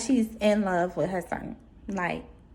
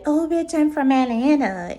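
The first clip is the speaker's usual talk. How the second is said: mock tough talk; 5 semitones higher, 3 dB louder than usual. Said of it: "act like she's big and bad".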